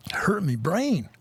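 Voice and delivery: whispered, slow, playing dumb; mock whisper. Streamer mocking a newbie trader's struggle to think, dopey whisper. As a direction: whisper it like your brain aches, slowly.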